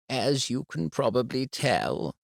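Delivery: a calm, careful head teacher; composed school head breaking bad news. A narrator's reading. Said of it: "she said".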